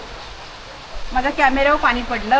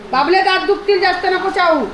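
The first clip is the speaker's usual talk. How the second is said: pet-talk warning; 5 semitones higher than usual. Real, not acted. Telling pet not to chew.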